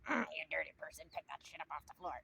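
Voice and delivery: judgy Susan, dropping the voice in disgust; scolding Susan. Pretend. The rude way to confront a litterer, disdainful scold. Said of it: "you don't have to be a Susan about it".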